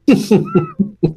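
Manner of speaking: a quick, high burst of laughter at the punchline; real laugh. Real, not acted. Host laughing at the caller's border story, real laugh. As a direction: laugh freely, caught off guard.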